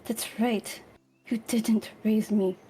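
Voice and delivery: slow, bitter words through teeth; through gritted teeth. Acted. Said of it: "just through her teeth".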